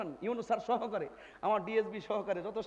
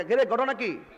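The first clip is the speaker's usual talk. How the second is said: mocking youth voice; 5 semitones higher, 4 dB louder, slower than usual.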